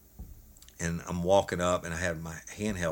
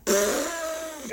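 imitated fart noise. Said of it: "and it's going".

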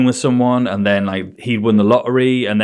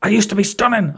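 higher mock lament; high imitation; 9 semitones higher than usual. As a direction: do her in a higher voice. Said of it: "And she went".

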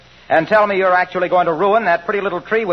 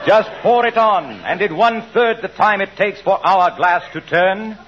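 hammy stage actor. Acted. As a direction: overblown theatrical recitation. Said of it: "Go on, Mister Wilcox".

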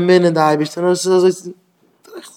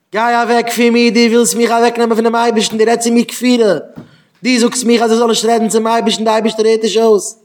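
raised, heated voice scolding; angry rebuke; 5 semitones higher than usual. Retold or imitated. Rebbe scolding the boy for heresy, raised voice. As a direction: drive him away with your voice.

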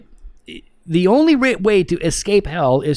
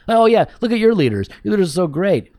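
higher-pitched, jeering mock praise; sarcastic mockery; 3 semitones higher than usual. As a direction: sneer like a scoffing outsider. Acting out outsiders mocking church leaders.

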